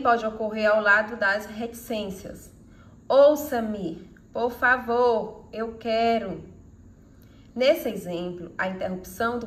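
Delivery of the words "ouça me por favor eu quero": slow begging that breaks off; pleading with hesitation. Shown as a demonstration. Teacher demonstrating a broken-off plea, slow and imploring. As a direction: beg slowly and trail off unfinished. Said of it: "Com uma súplica".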